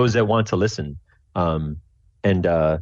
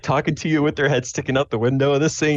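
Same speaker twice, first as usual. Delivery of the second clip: ordinary talk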